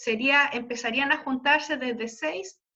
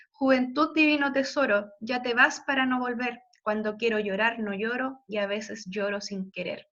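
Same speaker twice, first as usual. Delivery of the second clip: poem recitation; 2 semitones lower than usual. Acted. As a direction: recite it like a melancholy poem for the class. Reads Darío poem aloud.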